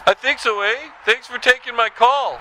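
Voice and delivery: hammed-up Canadian caller tacking on eh; Canadian accent.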